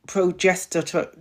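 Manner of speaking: "progester-" drawn out slowly, syllable by syllable. Shown as a demonstration. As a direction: ease carefully through "progester-" at half speed. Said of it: "I have to say this slow".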